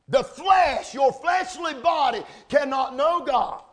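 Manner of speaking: firm, declarative pulpit voice; emphatic preaching. Real, not acted. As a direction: proclaim it to the congregation. Preacher declaring a point forcefully.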